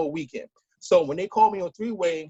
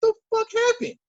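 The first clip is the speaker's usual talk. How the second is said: baffled outburst. Retold or imitated. Retelling the brother's phone call, baffled high outburst. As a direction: pitch jumps way up in retold disbelief. Retold confusion after hang-up.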